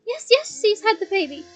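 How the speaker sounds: loud elated shout; joyful shout. Acted. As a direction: shout the good news over everyone. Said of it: "shouted Lupin".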